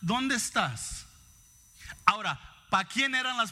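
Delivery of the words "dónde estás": slow, calm, loving question; calm fatherly love. Retold or imitated. God calmly calling Adam with a father's love. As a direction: ask it slowly like a loving father. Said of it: "muy calmado, con el amor del Padre".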